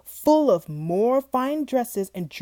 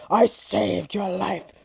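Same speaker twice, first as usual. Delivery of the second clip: spat out; slower than usual. Acted. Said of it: "It spat out the words like a sour taste".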